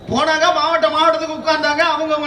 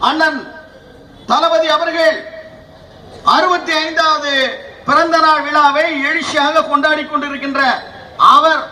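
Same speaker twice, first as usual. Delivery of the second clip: thunderous political oratory. Acted. Political speech building to applause lines.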